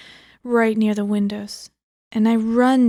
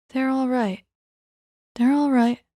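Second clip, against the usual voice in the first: higher, light, a touch otherworldly; light voice two; 4 semitones higher than usual. Retold or imitated. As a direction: lift it up and keep it light. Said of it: "Voice two, light".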